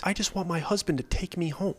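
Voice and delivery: a hint of a sad plea to her husband; lightly voiced sad wife begging for home. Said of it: "in a kind of sad voice".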